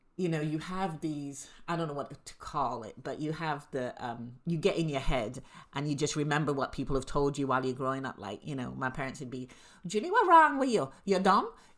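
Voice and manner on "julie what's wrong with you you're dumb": put-on speaking with a Guyanese accent. Recalling what her parents told her growing up, in their Guyanese accent. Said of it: "in their little Guyanese accent".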